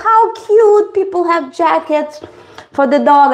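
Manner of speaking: high, delighted cooing; gushing over cuteness. Retold or imitated. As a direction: melt over the pink jacket. Gushing over dog's pink jacket.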